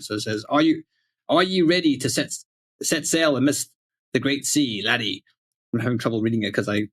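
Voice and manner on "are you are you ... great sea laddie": lightly hammed-up old English pirate. Shown as a demonstration. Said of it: "old English pirate voice here".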